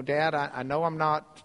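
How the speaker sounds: subdued, halting son practicing an apology; acted contrite son, understated; rehearsed apology. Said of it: "he's practicing the speech".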